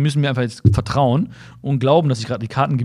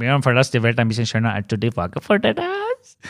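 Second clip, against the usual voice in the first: German with a put-on, sing-song Indian accent; 3 semitones lower than usual. Quoting what others told the speaker, in an indian accent. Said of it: "Aber natürlich mit indischem Akzent".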